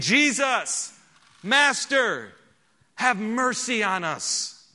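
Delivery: slow, pleading cry to Jesus. Acted. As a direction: call out across the distance, begging. Preacher reads lepers' cry aloud.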